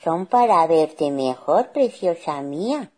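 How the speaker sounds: wolf feigning a touch of sweetness; mock-softened wolf. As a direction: reassure slyly, drawing it out. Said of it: "suavizando la voz".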